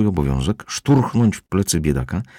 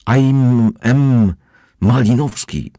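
halting English; 6 semitones higher, 5 dB louder, much slower than usual. A narrator's reading. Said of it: "przypomniał sobie kilka słów po angielsku".

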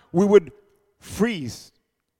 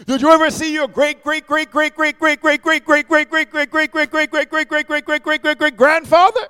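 building excitement; 7 semitones higher, 5 dB louder than usual. Acted. Piling up greats for effect.

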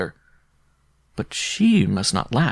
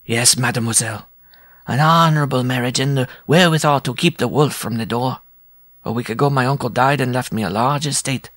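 higher, boasting little courtier; proud dwarf suitor; 3 semitones higher than usual. Acted. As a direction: promise her comfort proudly. Dwarf describes his fortune.

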